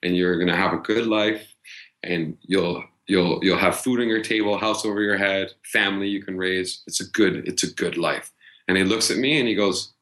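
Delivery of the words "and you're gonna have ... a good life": hoped-for reassurance. Retold or imitated. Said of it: "hoping and praying ... say".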